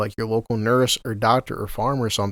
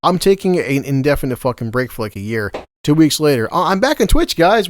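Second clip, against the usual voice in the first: mock streamer voice; 2 semitones higher, 4 dB louder than usual. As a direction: parody her bright comeback announcement. Mocking the streamer's excuses.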